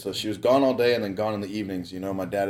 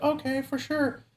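put-on high, slow, dopey kid voice; little brother voice; 5 dB quieter, slower than usual. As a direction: play the little brother as a goofy, eager kid.

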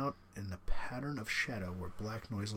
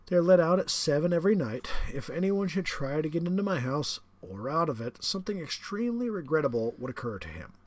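higher, louder, smug aristocratic villain; the general, menacing; 5 semitones higher, 8 dB louder than usual. Acted. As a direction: savour the threat like a proud host. General threatens, character voice.

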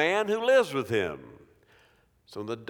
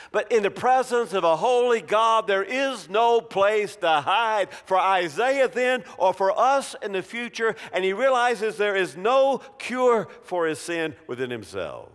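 preaching climax; 5 semitones higher, 3 dB louder than usual. Acted.

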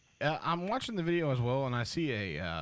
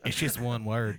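deep distorted monster roar; 2 semitones lower, 5 dB louder, slower than usual. Acted. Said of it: "make it sound like I'm a monster".

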